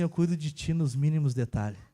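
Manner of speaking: God's voice. Retold or imitated. God reassures the tired father, low calm voice. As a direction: speak as God gently reassuring. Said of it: "Deus falou assim".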